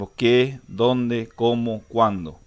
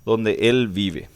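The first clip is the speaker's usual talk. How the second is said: slow example reading; 3 dB louder, slower than usual. Shown as a demonstration. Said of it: "decimos nomás ya".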